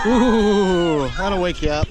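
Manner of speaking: squealing with laughter at the cold; excited laughing. Real, not acted. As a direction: gasp then laugh it out. Watching cold jump, laughing.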